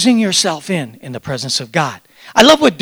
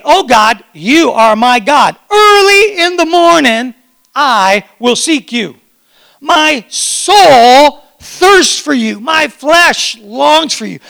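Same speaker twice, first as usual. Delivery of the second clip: voicing David's prayer louder and slowly; passionate prayer; 3 semitones higher, 4 dB louder, slower than usual. Pastor voices David longing for God with passion. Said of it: "Are you hearing the passion".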